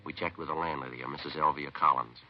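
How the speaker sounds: even, matter-of-fact storytelling; police case narration. Acted. Detective recounting the investigation to listeners, matter-of-fact narration. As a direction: report the legwork in a steady, level voice.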